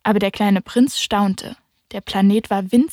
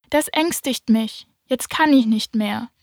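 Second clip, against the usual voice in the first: stammering; 2 semitones higher than usual. Acted. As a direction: falter like an embarrassed child. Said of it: "stammelte der kleine Prinz".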